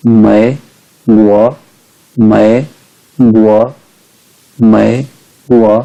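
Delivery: मैं as half third tone, then गुआ; drawn, separated syllables with half-dipped मैं before गुआ. Shown as a demonstration. Teacher giving another example, मैं in half third tone before गुआ. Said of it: "ऐसे".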